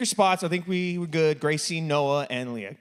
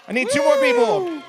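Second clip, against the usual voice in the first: very high, raised volunteer call; 4 dB louder than usual. Real, not acted. Host calling for two more players, high call-out. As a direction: holler it out to the whole room.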